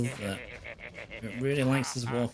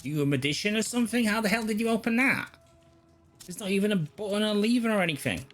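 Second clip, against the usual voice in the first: raised, louder baffled questioning; incredulous; 7 semitones higher, 3 dB louder, faster than usual. Real, not acted. Gamer to the game character who opened a way, incredulous. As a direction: demand to know the trick, voice climbing.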